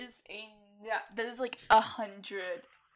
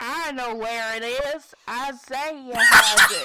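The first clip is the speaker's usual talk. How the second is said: deepened voice; 11 dB louder, slower than usual. Acted. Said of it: "I'm gonna deepen my voice".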